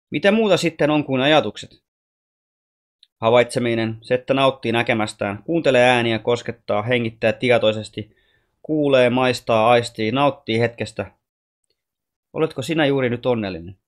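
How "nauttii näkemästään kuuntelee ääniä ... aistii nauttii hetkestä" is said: slow, each word given its own moment; slow savouring list. Acted. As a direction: let every sense word land slowly. Ami lists the senses, savouring.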